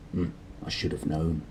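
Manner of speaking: soft, amused mutter under the breath. Acted. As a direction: mutter it softly to yourself. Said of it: "He chuckled and muttered".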